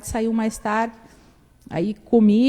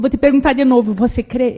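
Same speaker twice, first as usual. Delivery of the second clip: firm question; 3 semitones higher, 7 dB louder than usual. Retold or imitated. Grandmother asking again.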